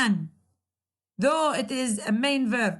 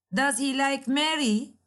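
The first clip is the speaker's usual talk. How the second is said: "Mary" raised as a model question; question intonation; 2 semitones higher than usual. Shown as a demonstration. Teacher repeating a yes-no question for students, voice raised on "Mary". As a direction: lift your voice on "Mary". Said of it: "raise your voice at the end of the sentence".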